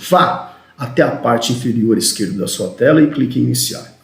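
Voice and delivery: "Vá" punched at the start, the rest even; stress on VÁ. Shown as a demonstration. Trainer models a support analyst's instruction, stress on "Vá". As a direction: hit "Vá", then run evenly through the instruction. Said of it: "Tem inflexão".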